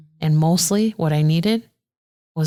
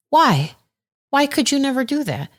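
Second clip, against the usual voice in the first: incredulous retold why; 9 semitones higher than usual. Retelling challenge to shy girl.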